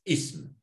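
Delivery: ism said on its own, clear and careful; Arabic ism, pronounced carefully; Arabic word ism. Shown as a demonstration. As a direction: model ism for the learner. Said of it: "Sería así".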